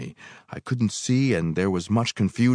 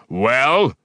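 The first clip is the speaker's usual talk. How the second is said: higher, much louder demand; repeated demand; 7 semitones higher, 9 dB louder than usual. A narrator's reading. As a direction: bark the question again. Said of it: "he repeated".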